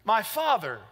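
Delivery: high, insistent declarations in short separate phrases; declaring, not begging. Shown as a demonstration. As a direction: claim it as a citizen with rights, never pleading. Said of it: "He says, you don't beg".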